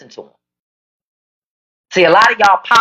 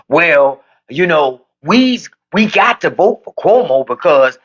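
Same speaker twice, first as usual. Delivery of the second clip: mocking imitation; 3 semitones lower than usual. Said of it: "You would have swore he just got freed from the fucking fields".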